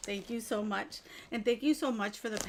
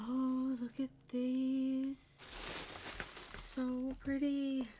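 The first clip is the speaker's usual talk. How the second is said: slow, higher-pitched admiring coo; hushed delight; 4 semitones higher, 4 dB quieter, slower than usual. Real, not acted. Showing viewers a pretty gift just unwrapped, cooing delight. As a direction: coo over it slowly.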